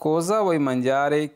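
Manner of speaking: very slow, each syllable clear; slow model sentence. Shown as a demonstration. Teacher reading the Italian phrase for students, very slow. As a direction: read it out slowly for learners to repeat. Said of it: "मुझे इस तरह पूछता है".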